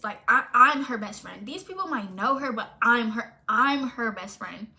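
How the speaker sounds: loud, stressed "I'm" each time; emphatic insistence. Retold or imitated. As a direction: hit "I'm" hard to assert your standing. Insists she is the best friend.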